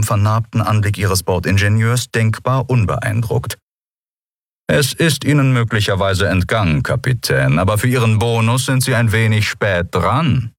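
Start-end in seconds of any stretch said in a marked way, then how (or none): 4.7-10.5 leicht gespielter, kühler Händler; süffisant vorgetragen, kaum verstellt; herablassender Geschäftsmann. Acted. Delarco als Figur. (Delarco zur Kapitänin, herablassend kühl)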